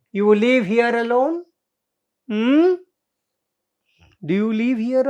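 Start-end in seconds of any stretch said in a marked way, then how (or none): 0.1-2.7 calm question. Acted. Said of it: "he was talking very calmly".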